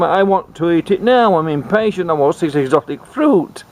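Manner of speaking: mock queen. Queen voiced in retold story.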